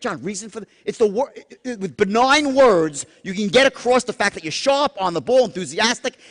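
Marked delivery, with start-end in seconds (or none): 0.0-0.7 lowered voice. Shown as a demonstration. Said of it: "We say".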